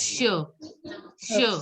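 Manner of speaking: isolated syllable che, "sh" not "ch". Shown as a demonstration. Teacher explains C H to students, che as "shuh". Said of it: "C H is pronounced as".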